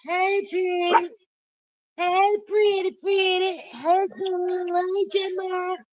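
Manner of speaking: high, sweet sing-song to a dog; doting pet talk. Retold or imitated. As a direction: coo at the dog like baby talk. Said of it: "He gets me".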